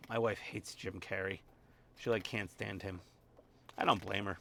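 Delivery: ordinary talk, nothing marked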